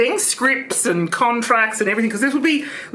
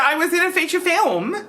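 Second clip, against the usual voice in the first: gleeful, higher take; laughing; 7 semitones higher than usual. Acted. Trish gloating to Christian, laughing. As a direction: laugh through the boast.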